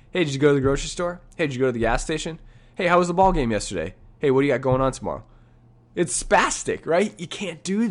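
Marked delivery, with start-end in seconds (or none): 0.1-5.2 jumpy chatter. Pretend. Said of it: "Can you imagine that?".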